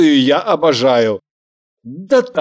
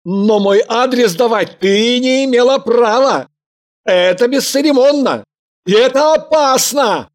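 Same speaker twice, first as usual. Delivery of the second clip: angry outburst; 8 semitones higher, faster than usual. Acted. Man's angry outburst at girlfriend.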